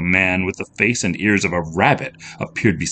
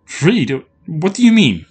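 high, startled questioning; upset, incredulous question; alarmed disbelief; 10 semitones higher, 5 dB louder than usual. A narrator's reading. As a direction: ask it in sudden confusion. Heroine confused and alarmed.

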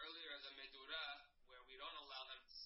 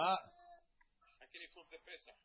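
loud objection; 2 semitones higher, 16 dB louder, much slower than usual. Real, not acted. Student objects during Gemara study.

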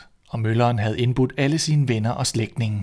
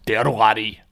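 robbers shouting; 4 dB louder than usual. Acted. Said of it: "råbte røverne".

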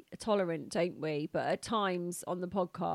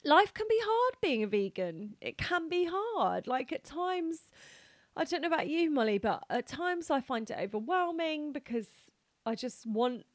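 real tears, pitch lifted and wavering; tearful, emotional; 3 semitones higher than usual. Real, not acted. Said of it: "I love that you're crying".

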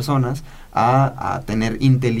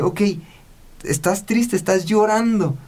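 tono comprensivo; 6 semitones higher than usual. Retold or imitated. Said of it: "hay que sentarnos con ellos y decirle".

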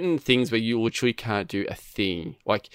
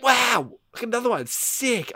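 much higher, fake-cheery sarcasm; sarcastic wow; 11 semitones higher than usual. Gamer mocking his own bad luck, high sarcastic cheer. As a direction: sound thrilled but mean the opposite.

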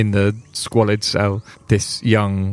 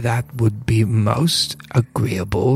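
gnome voice; 2 semitones higher, slower than usual. Acted. Gnome accepts help.

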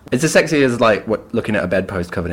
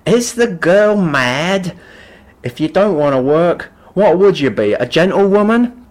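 mocking guardian; 8 semitones higher, 4 dB louder than usual. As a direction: scoff at the girl like a haughty guardian. Guardian voiced in retelling.

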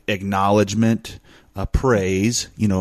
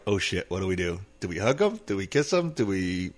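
mock helpless panic; 2 semitones lower, 7 dB quieter than usual. Acts out guys facing crying girls.

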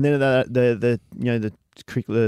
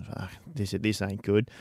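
muttered under breath; 7 dB quieter than usual. Retold or imitated. Retold muttering on muddy job.

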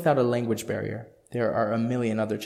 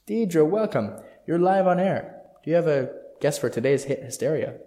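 excited DJ welcome; 5 semitones higher, 4 dB louder than usual. Acted. DJ greets caller on air.

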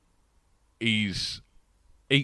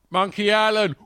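higher, louder quoted taunt; calling across the room; 9 semitones higher, 6 dB louder than usual. Acted. Quoting Gareth across the Christmas party, loud taunt. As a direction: call it out like the sitcom character. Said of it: "looks across the room and goes".

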